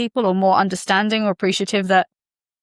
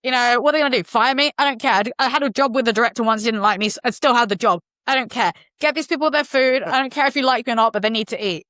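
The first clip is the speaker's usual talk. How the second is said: flamboyant star; 4 semitones higher than usual. Retold or imitated. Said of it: "flamboyant way that it wasn't aggressive".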